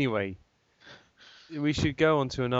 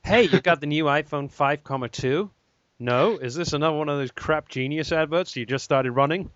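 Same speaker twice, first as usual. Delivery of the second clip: mock advert voice; 4 semitones higher than usual.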